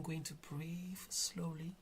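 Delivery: slow, measured breaths between words; calm slow delivery; slow and breathy. Real, not acted. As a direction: talk slowly, breathing to avoid stutter. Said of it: "breathe slowly while I talk".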